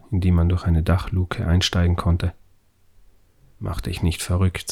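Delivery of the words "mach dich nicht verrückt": forced calm. Acted. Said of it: "um eine feste Stimme bemüht".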